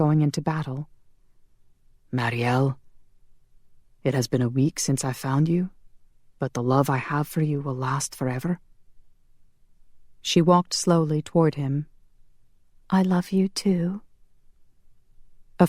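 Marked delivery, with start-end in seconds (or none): 2.1-8.6 lightly voiced earnest lover. Connor declares his love. 12.9-14.0 high, hushed, tender reply. Acted. Heroine answers love declaration.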